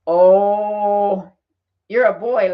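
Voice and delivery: loud, bright-eyed retold exclaim; half-hearted burst of delight at the flight attendant; excited exclaim. Larry retelling his excited cry to the stewardess.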